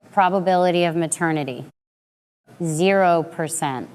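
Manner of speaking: flat clinical deadpan reading. Acted. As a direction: read it out cold and clinical. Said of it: "my voice dropping to a flat, clinical deadpan".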